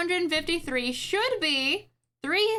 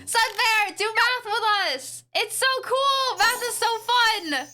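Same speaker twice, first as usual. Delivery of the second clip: gushing; 5 semitones higher, slower than usual. Real, not acted. Urging a viewer to do math.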